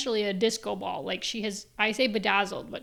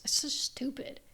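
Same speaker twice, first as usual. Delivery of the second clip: whisper; 4 semitones higher, 5 dB quieter than usual. Real, not acted. Whispered aside about lost voice.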